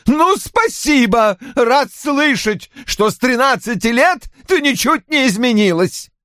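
put-on an old father sneering at his daughter; bitter sarcasm. Roy bitterly mocks his daughter. (медленно, с едким сарказмом)

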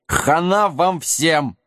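lightly voiced slow giant threat; a hint of a dim brute gloating; hoarse, muffled giant. Giant threatening the heroes, lightly hoarse and slow. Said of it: "Голос великана был хриплый и глухой".

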